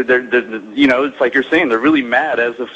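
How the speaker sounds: ordinary talk, nothing marked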